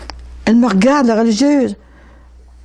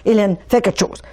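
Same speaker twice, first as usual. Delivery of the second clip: retold desperate plea, raised pitch; pleading cry; 3 semitones higher than usual. Father begging his dead wife to save their daughter, retold pleading cry. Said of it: "il criait".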